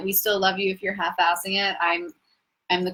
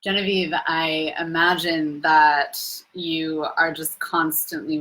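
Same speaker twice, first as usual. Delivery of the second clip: a slower, lightly put-on Chris accent; a half-hearted stab at a friend's accent; imitating Chris's accent; 2 semitones lower than usual. Retelling a friend's teasing to her viewers in his accent. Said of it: "let me try to be Chris".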